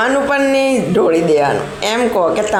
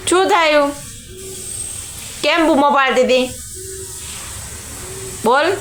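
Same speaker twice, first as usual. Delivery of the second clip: raised, cooing mock scolding; playful chiding; 7 semitones higher than usual. Real, not acted. Mother playfully chides shrieking child.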